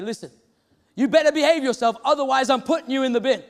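mildly acted scolding; telling off. Preacher retelling an angry lady telling her child off, mildly stern. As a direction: retell a parent's stern warning, only lightly angry. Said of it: "to tell that child off".

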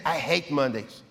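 low, grudging mock grumble; grumbling complaint. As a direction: sulk it like a Monday-hater. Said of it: "Normally Brazilians say".

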